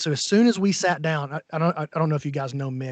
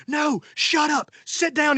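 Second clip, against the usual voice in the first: mock angry order; 11 semitones higher, slower than usual. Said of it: "and he's like".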